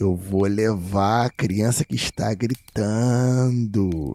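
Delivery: slow, deliberate, drawn-out stretched shouting voice. Retelling a childhood night, imitating the voice heard at the window. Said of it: "e a voz era bem parecida com essa".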